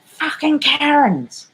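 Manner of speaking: high, slow, mocking daughter's voice. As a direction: drag it out high like a scornful teen. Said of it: "she's like".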